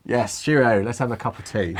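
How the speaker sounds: lightly exaggerated posh British English accent; playing up a stereotyped posh British accent; a hint of jokey posh British accent; put-on posh British. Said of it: "I don't know why I'm doing the accent".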